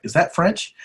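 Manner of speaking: lightly voiced haughty king; mock king. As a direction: lift it up like a fussy monarch. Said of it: "He's like".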